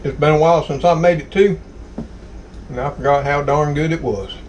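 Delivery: talking with a mouth full. Real, not acted. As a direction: speak around a bite of food. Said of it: "I'm gonna talk my mouth full".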